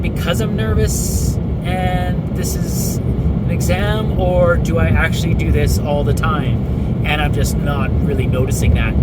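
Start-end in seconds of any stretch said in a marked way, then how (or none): 4.2-8.9 on a bumpy road. Real, not acted. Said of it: "Sorry for the bumpy road".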